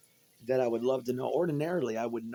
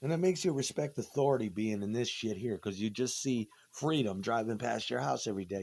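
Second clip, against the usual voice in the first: ordinary talk, nothing marked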